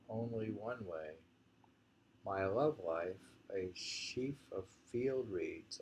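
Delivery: slow measured poem reading. Acted. Reading the reeds poem to a friend, slow and measured. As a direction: let each image land slowly.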